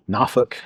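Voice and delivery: Norfolk said as "Nah-fuk", with no R or L; local pronunciation. Shown as a demonstration. Storyteller placing the highway in Virginia, Norfolk as local "Nah-fuk". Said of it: "that's how they say it".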